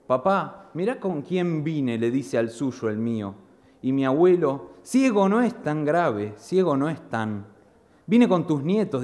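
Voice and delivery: expressive spoken-word delivery; dramatic poem recital. Acted. Poet performing his poem about his blind grandfather, dramatic recital. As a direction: perform the verse, voicing the family scene.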